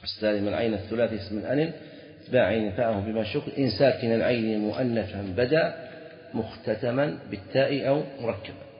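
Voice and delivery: chanted reading of the Alfiyya line; mild verse chant; reciting verse. Shown as a demonstration. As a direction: lilt the poem line out. Reciting Ibn Malik verse.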